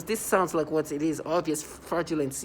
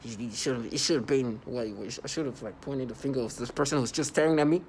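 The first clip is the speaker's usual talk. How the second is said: mocking their excuse; 4 semitones lower than usual. Mocking the people who claim the pointing was proof, stammering low. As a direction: mimic them bumbling and flustered. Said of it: "And they're like".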